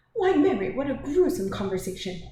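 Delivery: high, loud exclamation from a scandalised lady; theatrical lady's outcry; shocked cry. A narrator's reading. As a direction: exclaim in dismay, starting high. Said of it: "cried Missus Inglethorpe".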